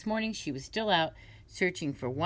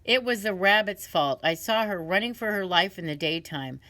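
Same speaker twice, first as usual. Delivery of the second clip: crow's excuse; 3 semitones higher, 4 dB louder than usual. Acted. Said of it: "He said".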